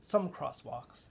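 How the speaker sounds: driving recitation, swelling then easing; half slam poem, half Torah. Pretend. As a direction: declaim the manual like slam-poet scripture. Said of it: "This is also, like, half slam poem and half, like, Torah".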